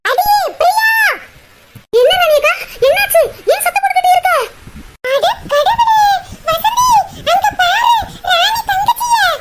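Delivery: high shocked shout across the temple; shrill-pitched outcry of a scandalized older sister; shocked yelling. Acted. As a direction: cry out in alarm to the others.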